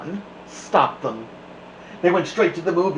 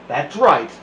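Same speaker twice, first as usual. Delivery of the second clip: stern witch; 7 dB louder than usual. A narrator's reading. Viola Swamp voiced.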